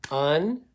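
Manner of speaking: "unfinish" clapped syllable by syllable; clapping the base word. Shown as a demonstration. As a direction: clap out "unfinish" in beats. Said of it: "I'm clapping that".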